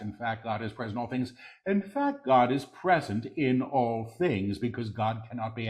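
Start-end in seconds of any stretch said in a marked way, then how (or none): 0.0-1.3 quick, soft undertone; hushed preview. Real, not acted. Quick soft take before repeating aloud. 1.6-4.6 deliberate full-voice repeat; measured proclamation. Real, not acted. Same words repeated in full voice.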